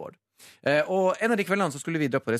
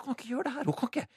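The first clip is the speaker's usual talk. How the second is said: inner voice; 11 semitones higher, 6 dB quieter, much faster than usual. Retold or imitated. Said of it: "inni hodet mitt så ble jeg sånn".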